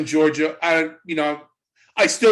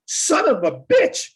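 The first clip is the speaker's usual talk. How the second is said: mock muttered curse; 10 semitones higher, slower than usual. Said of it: "And I'm going".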